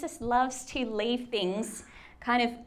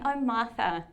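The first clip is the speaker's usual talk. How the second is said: a touch of softness, as if consoling a worn-out friend; tender reassurance. Retold or imitated. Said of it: "missing the heart of what Jesus is saying".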